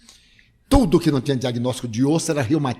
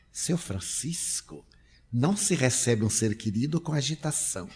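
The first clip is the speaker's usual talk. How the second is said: calm gentle reproach; 4 dB quieter than usual. Retold or imitated. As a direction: soothe him and correct him at once. Spirit calmly corrects agitated father.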